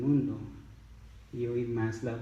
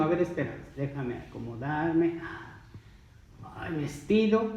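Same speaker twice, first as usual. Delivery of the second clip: mock stalling; 3 semitones higher than usual. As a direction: drag it out as if fussing before getting up. Mimics someone slow to get up. (imitación de alguien que se demora)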